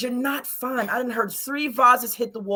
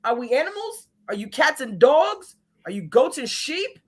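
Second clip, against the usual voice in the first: scolding; 6 semitones higher than usual. Retold or imitated. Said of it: "I'm in the middle like".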